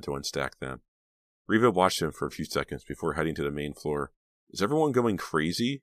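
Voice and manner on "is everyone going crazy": high-pitched, puzzled question; wondering. A narrator's reading. Reva heads out after the fight, wondering. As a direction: wonder at it in a higher voice. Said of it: "she wondered".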